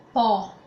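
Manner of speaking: pó with an open o from the mouth; pó aberto. Shown as a demonstration. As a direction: say pó with open oral o. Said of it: "tem uma pronúncia aberta".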